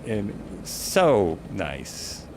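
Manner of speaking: dreamy slow murmur of delight; savoring it. Real, not acted. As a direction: linger on it, stretching the words. Admiring the view from helicopter.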